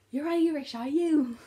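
high, loud imitation of a surprised teacher; hammed-up high-pitched questioning; mock surprise. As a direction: squeal the question like an astonished teacher.

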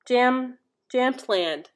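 Jamtland said slowly, JAM then TLAND; careful pronunciation. Shown as a demonstration. Vlogger to viewers, carefully saying the Swedish name. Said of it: "gave me a little advice on how to say it".

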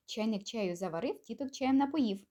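tongue twister at a brisker pace. Shown as a demonstration. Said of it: "тільки швиденько".

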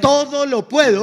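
loud, high and drawn out; rousing declaration. Real, not acted. Interpreter echoing the preacher's verse, rousing declaration. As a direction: proclaim it slowly to the crowd.

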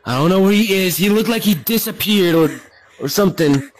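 firm fatherly calming. Acted. Father calming panicking son.

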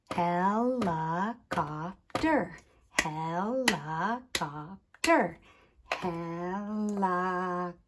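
"Helicopter" drawn out with gaps between four beats; separated syllables. Shown as a demonstration. Teacher counting sound groups, "Helicopter" slow, syllable by syllable. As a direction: slowly set he, li, cop, ter apart in "Helicopter". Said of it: "tap out the different sound groups".

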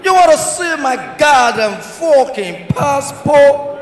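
slow, drawn-out mock American outrage; shouting American. American traveller asked for his passport, mock indignant shout. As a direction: swear indignantly, stretching every word. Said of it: "The American guy say dey shout".

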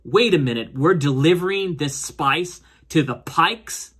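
indignant disbelief, lightly acted; imitating someone taken aback; mild retold alarm. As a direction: retell her being set off by the news. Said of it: "this sets Ahsoka off and says".

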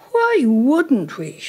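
high start, drawn-out words; breezy rhetorical question. A narrator's reading. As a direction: toss it off as obvious, slowly. Mother brushing off any objection.

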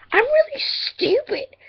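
squeaky slow whisper at herself; high whispered self-scolding. Real, not acted. Scolding herself over a mistake.

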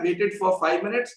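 slow, deliberate dictation of a message; slow polite note to a no-show client; reading out a typed message. Retold or imitated. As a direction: read the message out word by word, slowly. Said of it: "message type कर रखा है".

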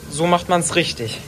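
loud, slow and proud. Real, not acted. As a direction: declare it proudly and slowly. Grandmother shows how it's done.

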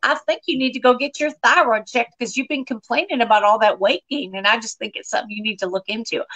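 Southern mom offering blunt advice; lightly voiced Southern mother, matter-of-fact; imitated mother. Mother advises daughter before she goes on stage, Southern mom voice. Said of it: "my mother looks at me straight in the eye".

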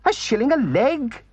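high, loud offended echo; indignant Toad. A narrator's reading. Toad echoes the gypsy's offer, high and indignant. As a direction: repeat it as if insulted. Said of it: "said Toad indignantly".

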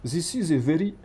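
tentative Russian-accented English; English with a put-on Russian accent. Shown as a demonstration. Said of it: "en anglais avec accent russe".

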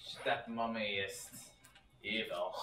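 put-on low, slow German accent. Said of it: "these fake German accents".

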